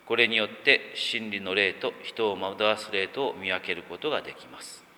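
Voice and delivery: measured, even read-aloud delivery; formal reading with pauses between clauses; scripture reading. Acted. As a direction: read the Bible passage out steadily, phrase by phrase. Reads a scripture passage aloud.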